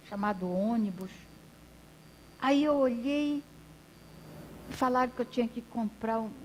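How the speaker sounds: lightly voiced old man, lively rise and fall; a hint of rustic old storyteller; simple old man. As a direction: tell it like a humble grandpa recounting his journey. Plays old man telling story.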